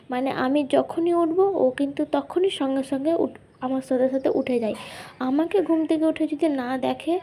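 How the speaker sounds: talking with a toothbrush in mouth; while brushing teeth. Real, not acted. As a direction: speak through brushing teeth. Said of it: "brush করতে করতে তোমাদের সাথে কিছু কথা বলবো".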